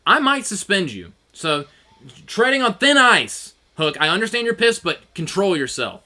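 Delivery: stern boss. Retold or imitated. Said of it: "he says".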